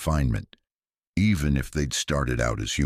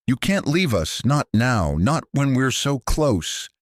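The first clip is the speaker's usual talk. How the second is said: eerie creature voice; 9 semitones higher, 4 dB louder than usual. Acted. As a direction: whine close behind her ear. Creature voice right behind her.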